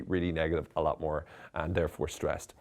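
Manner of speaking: ordinary talk, nothing marked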